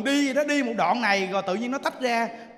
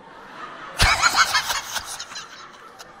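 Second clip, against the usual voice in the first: long airy giggle; high unvoiced laugh. Real, not acted. Monk laughing at his own advice. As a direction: burst out in breathy laughter.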